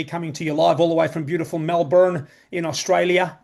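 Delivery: Melbourne said with an American r, Mel-burn; playful American twang on Melbourne; put-on American accent. Joking to the audience in a put-on American accent. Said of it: "I don't know why I put on that accent".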